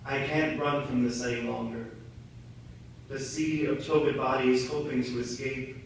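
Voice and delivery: quiet, weary admission; subdued confession. Acted. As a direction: drop the volume and confess it with shame. Poem drops to ashamed confession.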